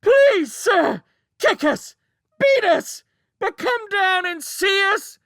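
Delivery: child screaming mock-obedient cries. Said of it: "howled back louder than ever".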